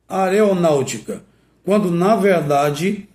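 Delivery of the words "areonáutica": "aeronáutica" with the r moved forward, "a-re-o-náutica"; pronúncia errada. Shown as a demonstration. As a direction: mispronounce "aeronáutica" as "areonáutica". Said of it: "É a pronúncia errada". ("aeronáutica" dito errado, "areonáutica")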